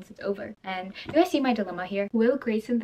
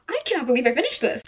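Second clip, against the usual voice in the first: repeated disbelief; 4 semitones higher, 4 dB louder, faster than usual. Real, not acted.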